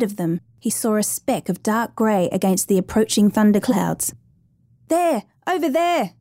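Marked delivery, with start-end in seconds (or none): 4.9-6.1 high-pitched call at normal volume; mild yell. A narrator's reading. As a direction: call out a sighting without really shouting. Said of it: "yelled Cooper".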